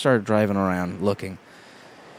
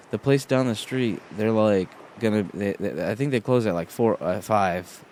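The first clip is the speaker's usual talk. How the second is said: hesitant, stumbling retelling of directions; unsure. Retold or imitated. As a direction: imitate someone unsure, searching for the details. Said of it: "he's a little, like, unsure".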